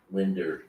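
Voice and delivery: "Winder." said for window; old-timey "Winder." for window; father's pronunciation. Retold or imitated. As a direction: say "Winder." as win-der. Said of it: "My father says".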